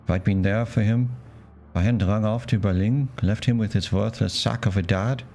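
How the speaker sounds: lightly put-on German accent, bitter uncle; a mild German accent, angry about the Humanis. Uncle vowing to find his nephew, mild German accent. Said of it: "It's not my best, uh, German accent".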